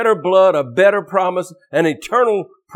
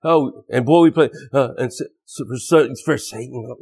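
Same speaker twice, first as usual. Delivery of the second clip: mock backmasking record. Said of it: "you heard some squeaky voice say Satan's glory".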